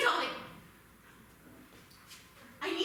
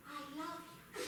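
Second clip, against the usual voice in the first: much lower, soft sinister voice; creepy librarian; 9 semitones lower, 16 dB quieter, much faster than usual. Acted. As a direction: intone it like a haunted host.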